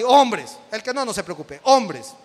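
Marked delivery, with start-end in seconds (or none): 0.0-0.6 loud, punchy call to the congregation. Real, not acted. Llama a los hombres presentes. 1.6-2.1 loud repeated roll call. Real, not acted. Repite el llamado a hombres.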